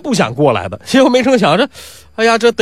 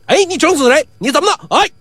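higher, sharp challenge; challenging; 10 semitones higher than usual. Acted. Strongman challenging Pi Wu, higher and sharp. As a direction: square up to him.

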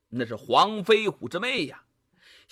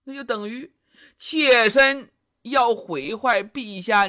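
娇声娇气地向君王诉苦，委屈撒娇; 装可怜的宠妃，拖着哭腔般的娇嗔; 妲己诉委屈; 3 semitones higher than usual. Acted. 妲己向纣王哭诉. (妲己向纣王娇声诉委屈)

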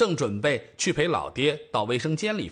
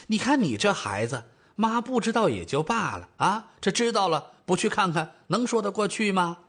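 mild motherly scolding, rising higher; older mother, reproachful; 5 semitones higher than usual. Acted. Mother chides daughter for refusing the visit, reproachful. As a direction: chide your child.

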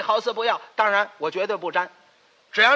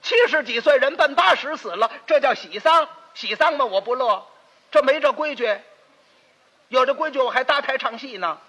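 loud lecturing; 4 semitones higher, 4 dB louder than usual. Acted. Lecturing neighbour on happy funeral.

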